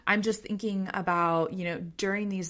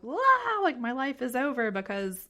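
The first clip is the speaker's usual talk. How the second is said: mock-panicked child, the wow pitched much higher; panicking kid; 6 semitones higher than usual. Host imitating a child freaking out over nothing. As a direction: imitate a kid who thinks the world has ended. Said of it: "freaking out and they're like".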